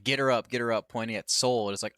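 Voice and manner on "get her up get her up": mild mock yell, a bit louder; retold yell. Wrestler yelling at her rival, half-hearted mock shout. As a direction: imitate yelling orders without a full shout. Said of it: "she's yelling at J C".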